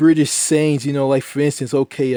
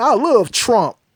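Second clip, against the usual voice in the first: put-on Texas twang, very high pitch; 9 semitones higher than usual. Speaker living in Texas imitates the local accent: Texas twang accent. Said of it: "they got this accent called the Texas twang, ... It's like this".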